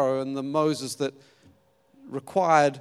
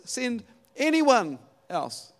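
drawn-out, slow begging plea; slow pleading; 6 semitones higher, 4 dB louder, slower than usual. Retold or imitated. Moses begs God to send someone else, slow plea. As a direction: plead slowly, dragging out anyone. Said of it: "Moses again pleaded".

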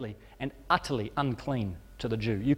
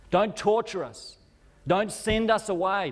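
pleading much higher and slower; demons begging; 7 semitones higher than usual. Acted. Demons begging Jesus not to torment them, high desperate pleading. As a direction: beg for mercy, drawn out and frightened. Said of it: "start begging with Jesus".

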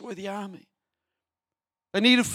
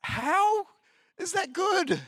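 a much higher, disbelieving How; incredulous; 11 semitones higher, slower than usual. Real, not acted. Preacher mocking the people's longing for Egypt, incredulous. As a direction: scoff at how absurd it is. Preacher scoffs at their logic.

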